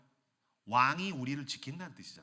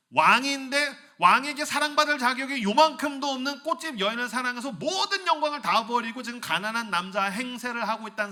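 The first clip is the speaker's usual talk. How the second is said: emphatic preaching; 8 semitones higher, 8 dB louder than usual. Real, not acted.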